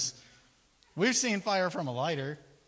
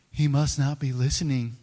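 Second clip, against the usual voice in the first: mocking Elijah; 6 dB louder than usual. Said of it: "He's like".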